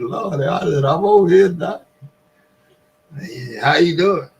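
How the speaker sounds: high, timid patient voice; nervous patient answering the booming doctor; meek patient. Retold or imitated. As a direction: squeak out a nervous greeting. Scared patient greets loud surgeon.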